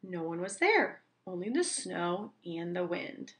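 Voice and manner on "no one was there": plain reading voice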